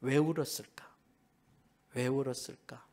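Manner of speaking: a soft whisper, almost unvoiced; whispered question. Real, not acted. Preacher whispering to the congregation why Joseph wept, hushed.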